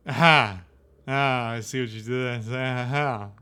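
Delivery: a loud, delighted Aha!. Acted. Harlequin applauds the player's trick with a loud, delighted aha. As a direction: burst out with a showman's Aha!.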